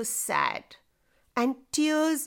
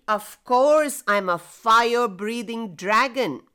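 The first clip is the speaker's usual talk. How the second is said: proud; 4 dB louder than usual. Acted. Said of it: "Slothy proudly claimed".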